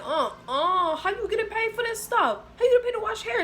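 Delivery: half-laughing disbelief, rising up; laughing outrage. Retold or imitated. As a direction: laugh at the unfairness. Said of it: "So I'm like".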